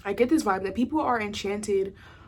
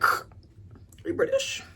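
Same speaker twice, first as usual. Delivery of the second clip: way higher, squeaky hammed-up question; exaggerated surprise. Retelling asking the guy, hammed-up high surprise. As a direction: replay the question with big mock astonishment. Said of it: "I was like".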